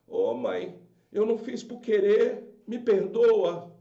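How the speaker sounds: put-on slow, drawn-out little child begging mom; pleading child. A son begging his mother, slow pleading child voice. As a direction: plead like a puppy-eyed kid. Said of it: "com aquela carinha de gato de botas e diz".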